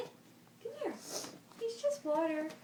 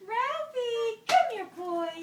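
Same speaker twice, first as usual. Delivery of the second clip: talking to a dog; 7 semitones higher, 6 dB louder than usual. Real, not acted. Coaxing the dog.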